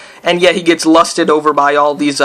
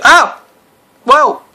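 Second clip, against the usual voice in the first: startled yelling; 5 semitones higher than usual. Real, not acted. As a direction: yelp and complain as the mobs attack. Attacked mid-story in the game.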